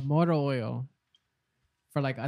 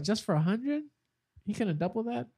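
higher-pitched questioning, mildly mock-incredulous; retold incredulity; 6 semitones higher than usual. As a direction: quote your own disbelief, pitched up. Retells own incredulous reaction.

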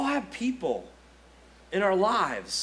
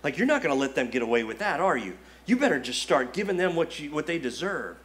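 lower, fast, goading tempter's voice; tempting devil whisper; 4 semitones lower, faster than usual. Retold or imitated. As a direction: egg them on like a devil at your ear. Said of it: "he's just gotta whisper in your ear".

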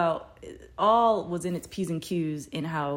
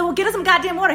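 high, loud exasperated outburst; pissed-off order; 13 semitones higher, 11 dB louder, faster than usual. Retold or imitated. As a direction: re-enact yelling an order at useless bystanders. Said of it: "'cause I'm pissed".

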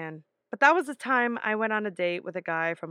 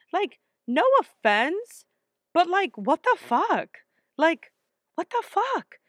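higher and louder, spitting out each what the fuck; outraged rant; 7 semitones higher, 5 dB louder than usual. Retold or imitated. Ranting at the friend who set up the date, outraged and loud. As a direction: blow up in disbelief at your friend. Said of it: "'Cause I'm just like".

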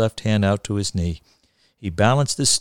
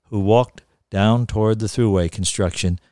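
measured, deliberate storyteller; literary reading aloud; story narration. A narrator's reading. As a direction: read it with wry relish, lingering on phrases.

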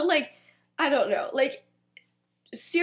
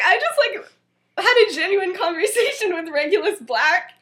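laughing disbelief; 3 semitones higher, 4 dB louder than usual. Retold or imitated. Bewildered friend in retold story.

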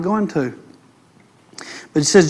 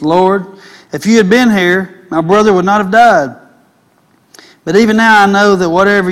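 emphatic pulpit reading, slightly raised; scripture reading; 2 semitones higher, 5 dB louder than usual. Acted. Preacher reading Martha and Jesus to the congregation, emphatic scripture reading. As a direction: read the verse out with conviction.

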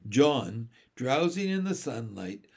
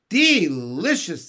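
drawn-out, louder sigh of delight; happy sigh; 3 semitones higher, 8 dB louder, slower than usual. A narrator's reading. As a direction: savour the word slowly and happily. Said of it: "with a happy sigh".

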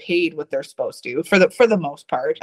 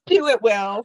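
teasing push; 6 semitones higher than usual. Real, not acted. Egging the host on.

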